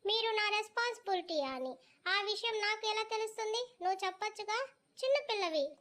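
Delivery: put-on two kids squabbling over who is the boss; bickering children. A boy and a younger girl argue about who must obey, high and sulky.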